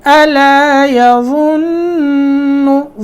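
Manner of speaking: يَظُنُّ with a heavy za, slowly. Shown as a demonstration. Teacher showing the heavy za, slow recitation. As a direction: recite يَظُنُّ with a full thick za. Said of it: "ظا موٹا لفظ ہے".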